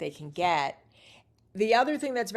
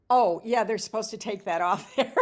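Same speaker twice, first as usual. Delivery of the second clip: laughing tease; 3 semitones higher, 4 dB louder than usual. Retold or imitated. Teasing Angela about the name.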